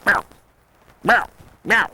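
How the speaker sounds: short, deep throaty bark; deep gravelly barks. Shown as a demonstration. Demonstrating the elk warning bark, deep and throaty. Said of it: "these are deep, gravelly, throaty sounds".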